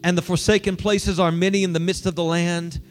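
solemn, measured reading of the text; scripture reading. Acted. Pastor reading scripture to the congregation, solemn and measured. Reads scripture before the sermon.

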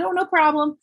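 high-pitched, breezy retold answer; high polite reply. Acted polite reply to stranger.

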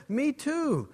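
chirpy, keen agreement; eager second guy. Acted.

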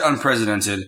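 "unprecedented" said as "un-president-ed"; misspoken word. Retold or imitated. Repeating what he tweeted, "unprecedented" pronounced un-PRESIDENT-ed. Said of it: "but he said unprecedented".

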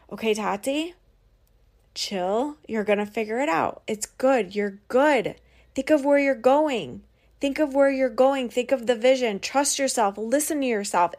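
soothing self-talk; calm yourself down gently; self-reassurance. Retold or imitated. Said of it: "this talk that I had with myself".

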